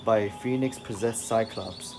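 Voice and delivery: steady recap read for the stream; story narration. A narrator's reading. Streamer reading the recap to chat, steady narration. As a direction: read it like a comic book intro. Reads the comic recap aloud.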